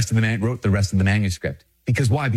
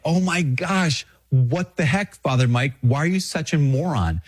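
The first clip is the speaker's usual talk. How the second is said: self-scolding; 5 semitones higher than usual. Retold or imitated. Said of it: "And I was like".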